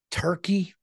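breathy stage whisper on turkey; conspiratorial whisper. Acted. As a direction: whisper it like a secret.

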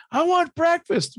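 high mock whine from an entitled customer; mock angry customer. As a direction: play a spoiled customer shrieking for breakfast. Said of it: "who's like".

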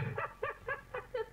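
high, manic cackling laugh; maniacal cackle. Acted. Joker cackling at the doctor over his sad tale. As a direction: cackle like a madman at your own joke.

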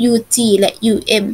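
"ug" and "um" each said very slowly and clearly; teacher modelling the endings slowly; slow ending demo. Shown as a demonstration. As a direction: drag out "ug" and "um" so students hear the ending. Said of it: "จะมีคำยังไง".

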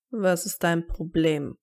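cool, cutting question. A narrator's reading. Snape challenges Harry's outburst, cutting. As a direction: put a mild edge on the question. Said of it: "fragte Snape schneidend".

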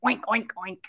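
pig oink. Pretend. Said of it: "they always say".

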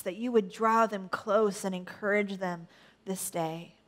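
earnest, even-pitched congregational prayer; leading prayer. Real, not acted. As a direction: pray aloud sincerely, phrase by phrase.

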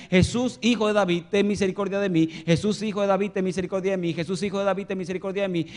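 tireless rote repeating; monotonous repetition. Shown as a demonstration. Preacher showing how endless repetition tires listeners, monotonous repetition. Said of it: "que yo repita toda la mañana".

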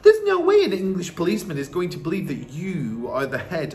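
put-on quick boy voice; incredulous boy, rapid delivery; disbelieving young grandson. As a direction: object in disbelief, talking fast. Boy doubts grandmother's story.

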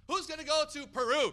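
high, loud rousing question; rallying call. Retold or imitated. Preacher asking the leaders, loud rousing question. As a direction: call out to the crowd. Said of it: "He goes".

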